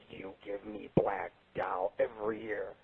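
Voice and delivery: put-on low, slow, sulky kid voice; a lightly voiced grumbling son; a hint of a pouting kid complaining to his dad; mad little son. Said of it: "He's pissed".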